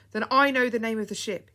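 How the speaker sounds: loud, high excited cry; boy crying out the ship's name in excitement. Acted. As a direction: blurt out the discovery. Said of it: "he cried".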